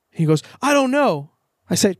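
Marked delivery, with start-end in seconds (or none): 0.6-1.3 put-on much higher, whiny little-kid voice; sulky kid. Uncle retells nephew's tantrum, high whiny kid voice. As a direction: play the sulky five-year-old.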